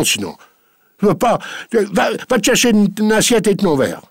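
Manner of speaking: high, loud blustering rant; angry old master. Acted. Farmer orders his maid to eat with him, furious bluster. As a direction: splutter and bully her to sit and eat.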